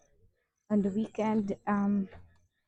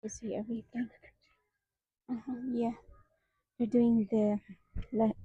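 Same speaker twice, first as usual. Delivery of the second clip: breathless from walking uphill; panting between words; out of breath; 2 semitones higher, faster than usual. Real, not acted. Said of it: "I'm getting out of breath".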